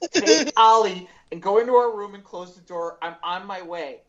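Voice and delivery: a sudden push of volume, barking out the instruction; urgent order. Retold or imitated.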